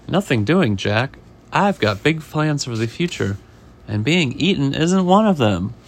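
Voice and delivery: lightly voiced storybook defiance; emphatic acted refusal; defiant fish. Fish refusing the chef's frying pan, mild defiance.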